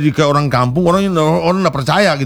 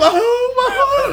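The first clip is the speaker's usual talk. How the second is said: much higher, slow drawn-out wail breaking into a laugh; anguished cry; much slower than usual. Shown as a demonstration. Teacher shows real grief over a burned house.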